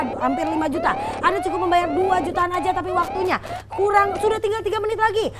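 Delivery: urgent TV shopping pitch; infomercial. Acted. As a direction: push the countdown deal hard. Host pushes limited-time discount.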